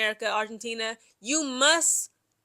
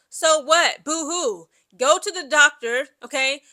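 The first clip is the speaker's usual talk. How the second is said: scornful, emphatic brush-off; mock the excuse with fake pity; mocking dismissal; 5 dB louder, slower than usual. Real, not acted. Commentator dismissing the man's pain excuses, mocking.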